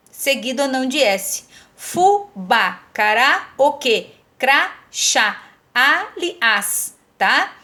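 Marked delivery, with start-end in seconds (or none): 1.7-3.5 "Fubá, cará" spaced, each final "á" leaned on; deliberate "fu-BÁ, ca-RÁ"; final-syllable stress. Shown as a demonstration. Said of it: "tônica dela tá na última sílaba". 4.4-6.9 "Crachá, aliás" broken up, endings leaned on; deliberate "cra-CHÁ, a-li-ÁS"; final-syllable stress. Shown as a demonstration. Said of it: "tônica dela tá na última sílaba".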